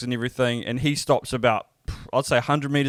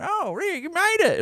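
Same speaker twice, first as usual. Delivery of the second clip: mock parental greeting. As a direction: voice the parents' welcome way up high and light. Parents greeting him at restaurant, voiced.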